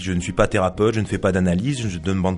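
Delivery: author reading a dramatic monologue aloud; story narration. Acted. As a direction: read it as one side of a conversation, in measured phrases with pauses. Resumes reading own novel aloud. (lecture de roman à voix haute, en monologue posé)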